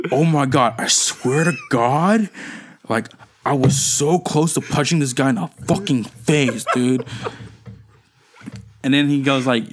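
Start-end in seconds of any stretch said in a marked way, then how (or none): 0.1-7.0 mock seething rant, drawn out on God; imitated anger. Retelling an overheard bus rant, mildly angry. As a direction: act out a worked-up grudge, lightly. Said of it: "I was so angry because this kid".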